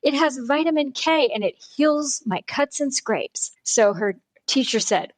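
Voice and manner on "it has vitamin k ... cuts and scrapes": put-on explaining child. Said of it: "And she said".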